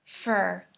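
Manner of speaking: for said as fur; for reduced to fur. Shown as a demonstration. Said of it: "we say fur".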